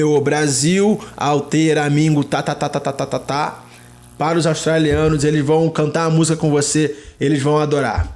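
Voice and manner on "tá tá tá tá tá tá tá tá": softer rapid run of "tá"; imitated clap rhythm. Reminding viewers of the Korean chant, rhythmic clap syllables. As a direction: tap out claps with the voice.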